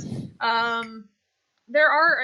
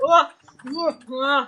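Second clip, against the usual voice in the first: startled waking grunts; 5 dB louder than usual. Acted. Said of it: "older half-orc fella who, like, juggles away. He's like".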